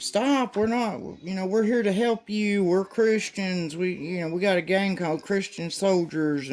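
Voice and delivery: high, frantic pleading guys; mock pleading. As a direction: beg him to stop in a high put-on voice. Masked guys begging him to stop.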